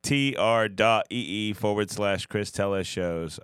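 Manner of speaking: slow, dazed spelling of the address; stoned. Real, not acted. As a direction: drag through the letters, stoned. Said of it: "I'm fucking high".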